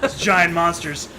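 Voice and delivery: mock worried biker.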